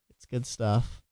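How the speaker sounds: ordinary talk, nothing marked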